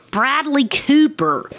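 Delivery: high, slow, relieved naming; triumphant recall. Real, not acted. Podcaster finally remembering the raccoon's voice actor, high triumphant. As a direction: land the name like a eureka.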